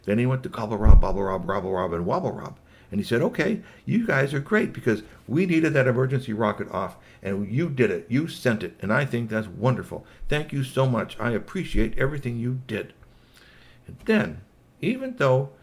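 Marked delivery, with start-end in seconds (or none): 3.2-12.9 polite robot. Acted. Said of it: "a very polite Agatsuri Ninja robot".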